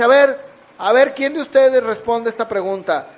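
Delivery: pregunta en voz alta a todo el salón; llama la atención de la clase, fuerte; maestro preguntando a la clase. Retold or imitated. (maestro preguntando fuerte)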